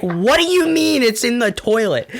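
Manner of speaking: high-pitched mock incredulity; retold disbelief. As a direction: act baffled at mom's news. Retold disbelief at mom's news.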